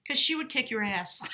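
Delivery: amused, breaking into a laugh. Real, not acted. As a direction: let a laugh escape at the end. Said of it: "I'm sorry I'm laughing".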